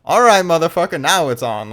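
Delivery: imitated angry retort, rising in pitch and volume; Ohan with switch flipped. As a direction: act out losing patience, ending in a loud challenge. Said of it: "that flipped a switch in Ohan".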